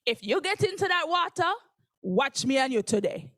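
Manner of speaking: Jamaican mother's stern warning, rising sharply; Jamaican mother threat. Retold or imitated. Jamaican mom warning her daughter about the pool, sternly. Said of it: "she looked me dead in the eyes and she said".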